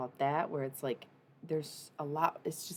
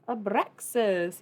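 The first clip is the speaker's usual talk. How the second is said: excited name call; 5 semitones higher, 10 dB louder, much slower than usual. Real, not acted. Names a favorite demon.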